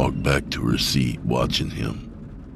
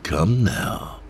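sinister Quaker voice. Acted.

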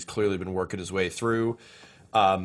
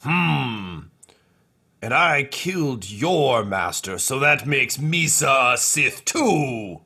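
slow, lightly voiced boss; slow sly reasoning; Two Two Cups scheming; 4 semitones higher, 3 dB louder, slower than usual. Boss claiming to be a Sith, slow sly voice. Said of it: "and he's like".

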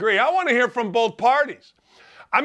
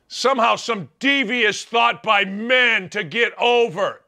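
ordinary talk, nothing marked

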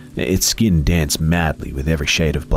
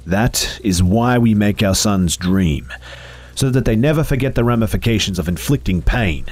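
rising, higher and more urgent sermon; righteous phantom preaching its mission; 8 semitones higher than usual. Acted. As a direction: climb in pitch clause by clause. Phantom explains.

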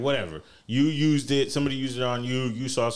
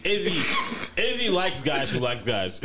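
laughing shout; 3 semitones higher than usual. Real, not acted.

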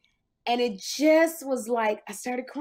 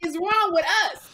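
laughing disbelief; 11 semitones higher than usual. Retold or imitated. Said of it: "I go".

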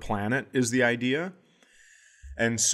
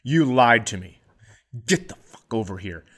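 angry dad; 3 semitones lower than usual. Retold or imitated. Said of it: "he goes".

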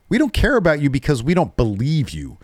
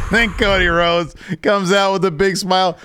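excited; 8 semitones higher than usual. Real, not acted. Host recapping Cody Rhodes' entrance, thrilled. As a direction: pitch climbing high with delight.

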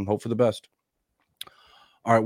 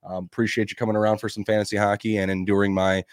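raspy sick voice. Real, not acted. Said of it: "old man raspy cough voice thing".

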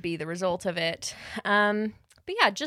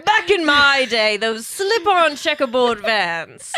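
put-on old-timer voice; 4 semitones higher, 8 dB louder than usual. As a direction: play a nostalgic old-timer. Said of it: "They're like".

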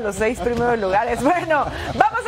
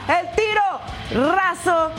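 slow drawn-out shot call; 4 semitones higher, much slower than usual. Acted.

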